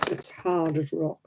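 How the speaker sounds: talking through crunchy honeycomb; chewing sticky toffee. Real, not acted. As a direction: chew and talk, mouth full. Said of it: "I'm eating".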